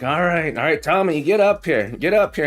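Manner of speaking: a hint of a fed-up father; impatient dad tomato. Scene: dad tomato calling the lagging baby, impatient. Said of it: "He's like".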